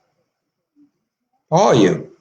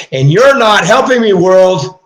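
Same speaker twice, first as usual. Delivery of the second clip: angry outburst; 5 semitones higher, 5 dB louder than usual. Real, not acted. Pleading with God, rising anger.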